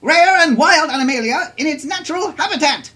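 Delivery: high, bright announcer pitch; radio ad read. Acted. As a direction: sell the zoo like a cheesy radio spot. Reads mock zoo radio ad.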